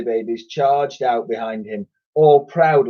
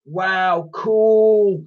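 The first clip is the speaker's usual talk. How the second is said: put-on much higher kids' voice; children shouting; 8 semitones higher than usual. A narrator's reading. Children cheering as they take toys. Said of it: "shouted the children".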